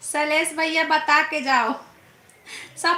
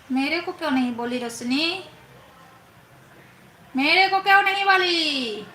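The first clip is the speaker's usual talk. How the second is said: mock jealous whine. Streamer mock-sulks at Roshni for skipping her love you. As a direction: sulk like a left-out sister, pushing the second ask up. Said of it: "मेरे को जलन हो रहा है".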